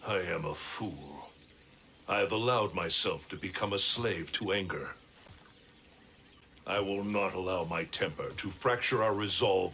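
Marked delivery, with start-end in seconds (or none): 0.1-4.3 remorseful. Acted. Raiden regrets his anger.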